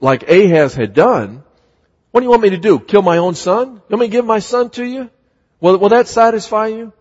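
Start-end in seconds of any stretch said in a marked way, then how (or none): 2.1-6.9 higher, quick mocking retort; sarcastic. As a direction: throw it back at God with biting sarcasm. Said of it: "Even sarcastically saying".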